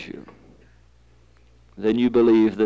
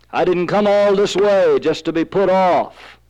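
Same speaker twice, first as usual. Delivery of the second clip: higher-pitched, indignant refusal; indignant protest; 6 semitones higher, 4 dB louder than usual. Acted. Father protesting to Jesus about his sick boy, indignant. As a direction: push back, refusing to be put off. Imagined protest at being put off.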